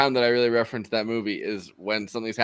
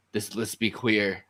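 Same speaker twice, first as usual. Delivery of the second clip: slow, lower imitation of an actor; Alec Baldwin; 4 semitones lower, 4 dB quieter, slower than usual. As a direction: lightly imitate him, low and drawn out. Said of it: "in the Alec Baldwin voice".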